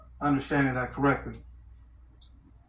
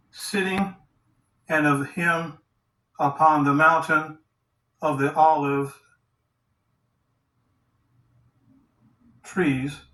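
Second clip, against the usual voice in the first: halting reading, a few words at a time; word-for-word scripture reading; 4 dB louder than usual. Acted. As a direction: pick through the verse phrase by phrase with pauses. Reads word-for-word Greek translation.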